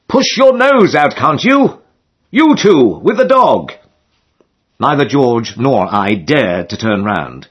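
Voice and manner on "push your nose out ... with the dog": very high, slow carrying shout; crying out. A narrator's reading. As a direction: yell across the crowded lock. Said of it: "another voice cried".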